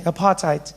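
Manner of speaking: "Apartheid" with a soft t and a falling end; "Apartheid" said lightly, like something on a shoe; apartheid said the new way. Shown as a demonstration. Comedian showing how it is said now. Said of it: "Notice how we say it like that these days".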